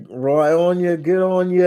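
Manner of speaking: high, loud mock-Australian accent; imitated Australian accent. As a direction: call it out in a put-on Aussie accent. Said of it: "No, they're Australian".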